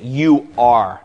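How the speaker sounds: emphasis on "You are", not on king; stress on You are. Shown as a demonstration. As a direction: lean on "You are" and let the rest fall away. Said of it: "the emphasis is on the statement".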